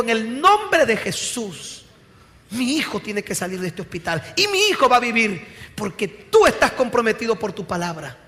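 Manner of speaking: bold, emphatic prayer of claim; powerful faith. Retold or imitated. Mother praying for her dying son in hospital, powerful faith. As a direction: pray it with firm conviction, leaning on key words. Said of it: "vino con una fe poderosa y le dijo".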